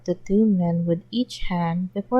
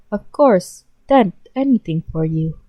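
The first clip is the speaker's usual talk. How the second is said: louder eager promise; eager devotion; 6 dB louder than usual. Acted. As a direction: swear it loyally to the boss.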